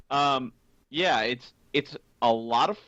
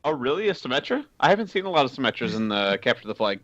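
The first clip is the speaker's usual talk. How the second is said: sarcastic. Pretend. Host teasing co-host about a common hero pick, sarcastic. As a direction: feign surprise, lifting the opening questions. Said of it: "I'm just being sarcastic".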